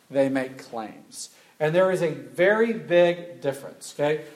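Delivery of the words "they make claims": very slow "they make claims"; slow emphasis. Shown as a demonstration.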